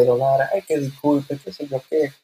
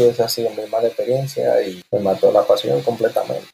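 normal talking voice

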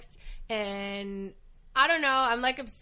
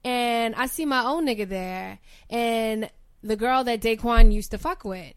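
bird voice; 2 semitones higher, 5 dB louder than usual. Pretend. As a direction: perform the tough girl from the block. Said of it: "I put on a bird voice".

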